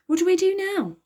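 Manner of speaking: put-on high, eager girl's question; young girl asking, pitched well up; Virgo's voice. A narrator's reading. Virgo asks Elliot outside the palace window, high and eager. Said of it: "asked Virgo".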